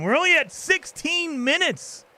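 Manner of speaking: high, slow, delighted; excited. Real, not acted. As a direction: stretch it out in happy surprise. Pleased at the time.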